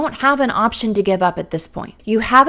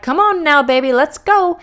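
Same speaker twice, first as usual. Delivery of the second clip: impatient urging; 6 semitones higher, 5 dB louder than usual. Retold or imitated. Urging a late baby.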